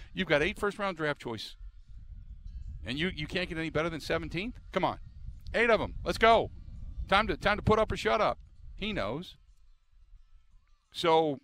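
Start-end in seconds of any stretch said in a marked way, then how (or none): 0.1-8.4 mock critics demanding. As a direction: needle him with a pushy challenge. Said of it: "all he's going to hear is".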